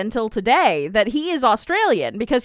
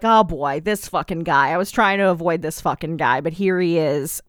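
lower, grumbling hunter, lightly voiced; a hint of a fed-up hunter, pitched lower; annoyed hunter; 5 semitones lower than usual. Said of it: "And the hunter's like".

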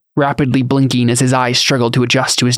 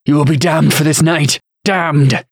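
higher-pitched furious threat; enraged outburst; 4 semitones higher than usual. A narrator's reading. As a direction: spit out a curse in outrage. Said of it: "the veins in his neck beginning to pop".

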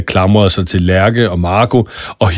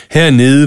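hernede pushed up high and louder with a rise; stress on hernede; 6 semitones higher, 4 dB louder than usual. A narrator's reading. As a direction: lean hard on hernede, rising. Emphatic repeat in villain speech.

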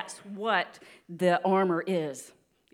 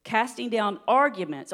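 firm, louder verse reading; slow scripture reading; 3 semitones higher, 5 dB louder than usual. Real, not acted. Preacher reading Second Corinthians to church, slow and deliberate. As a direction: read it out deliberately and loud. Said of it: "read this kinda slow".

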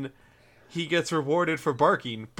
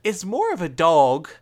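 slow, slightly louder mock English accent; bad English accent; 3 semitones higher, 5 dB louder, slower than usual. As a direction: stretch it out in a clumsy English accent. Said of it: "'cause that was bad".

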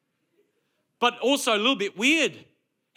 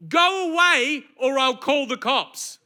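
slow, louder mock yell at the door; retold yell; 4 semitones higher, 4 dB louder, slower than usual. Simone yelling through the door at the knocker, a slow mock yell. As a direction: bellow it slowly at the stranger knocking. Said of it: "Sim yells at the door".

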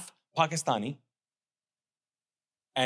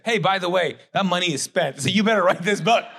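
wife warning; 6 semitones higher, 8 dB louder than usual. Retold or imitated. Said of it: "And she said".

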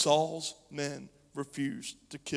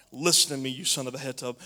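louder commanding summons; angry shout; 8 dB louder than usual. Acted. Saul shouts at the priest Ahimelech, angry. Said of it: "Saul shouted".

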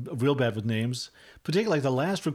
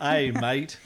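mock Australian; 2 semitones higher, 3 dB louder than usual. Shown as a demonstration. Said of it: "There, I can do that".

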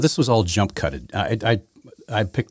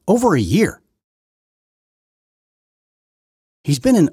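heated rant; 10 semitones higher, 6 dB louder than usual. Real, not acted. Ranting to viewers.

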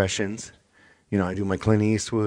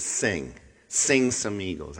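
mocking demand; slower than usual. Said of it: "when someone says".

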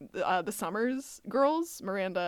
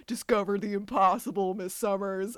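stoner voice. Retold or imitated. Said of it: "funny stoner voice".

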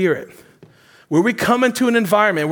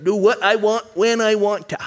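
put-on stubborn loner in a Maine accent. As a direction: Maine accent, set in its ways. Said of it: "a wow from my Mainer accent".

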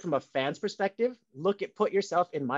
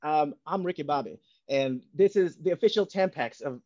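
put-on Ricky Bobby Southern accent. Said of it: "best Ricky Bobby Southern accent".

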